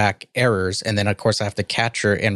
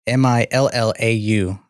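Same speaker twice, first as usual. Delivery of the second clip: normal talking voice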